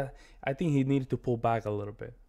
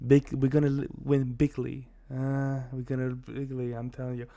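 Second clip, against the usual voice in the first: Trump impression. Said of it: "it's very easy to imitate".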